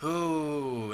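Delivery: lightly voiced mystical fortune-teller; drawn-out spooky séance delivery with a ghostly "ooh"; gypsy lady. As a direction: play a hint of a hokey gypsy seer. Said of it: "like, a gypsy lady is like".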